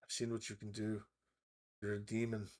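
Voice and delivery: soft, guarded innkeeper voice; wary accusation. Acted. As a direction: accuse under your breath, keeping your distance. Frightened innkeeper confronts the player.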